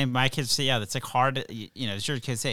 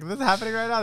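incredulous aside; 10 semitones higher, 6 dB louder, faster than usual. Retold or imitated. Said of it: "it's like".

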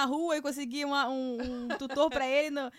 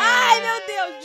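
shuddering; 7 semitones higher, 8 dB louder, much slower than usual. Real, not acted. Reliving the centipede fright.

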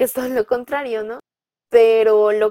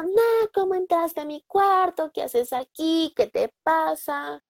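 scared; 8 semitones higher, slower than usual. Retold or imitated. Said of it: "se asustó y le dijo".

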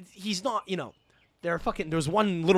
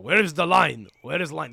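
mock Russian accent, first question louder; 6 dB louder than usual. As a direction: imitate a demanding Russian man. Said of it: "This fucking Russian guy comes in".

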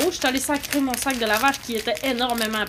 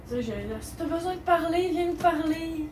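high, soft, sweet-talking put-on; mock staff voice; 5 semitones higher, 7 dB quieter than usual. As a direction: parody the staff's fake-friendly offer. Mimics staff's hollow offer.

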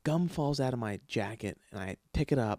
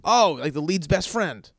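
mocking quote; 4 semitones higher, 5 dB louder than usual. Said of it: "and you go".

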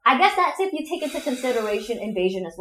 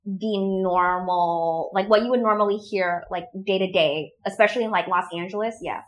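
everyday Los Angeles accent, slightly lower; Californian accent; 4 semitones lower than usual. Shown as a demonstration. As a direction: talk like an LA local, not too exaggerated. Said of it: "this is sort of, like, the normal".

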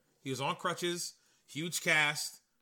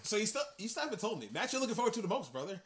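wrestling promo voice; 7 semitones higher than usual. Acted. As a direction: ask it like a hammy wrestler.

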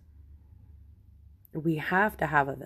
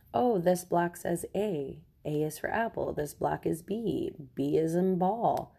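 mock teaching voice. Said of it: "sit there and be like".

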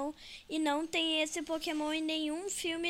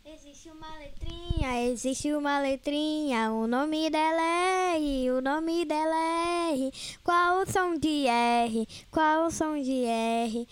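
put-on child booming a teacher's lines; loud mock teacher; 6 dB louder than usual. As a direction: announce each line loudly, like a lesson. Kid imitating a teacher.

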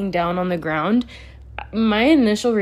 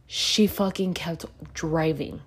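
whisper; 2 semitones lower, 5 dB quieter than usual. Real, not acted. Telling viewers of hit-and-run.

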